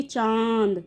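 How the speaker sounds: चांद said through the nose, vowel nasalised, falling; nasal चांद. Shown as a demonstration. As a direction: make the आ in चांद ring in the nose. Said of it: "नाक से उच्चारण हो रहा है". (चांद नाक से बोलें)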